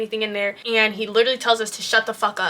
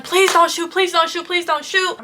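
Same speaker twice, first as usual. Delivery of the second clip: higher-pitched, repeated frantic plea; retold pleading yell; 6 semitones higher than usual. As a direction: imitate a group begging for their lives. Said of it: "we're literally yelling".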